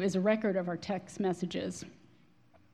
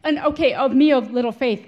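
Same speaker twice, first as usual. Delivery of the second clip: laughing; 3 semitones higher, 11 dB louder than usual. Real, not acted. Laughing at her own disbelief.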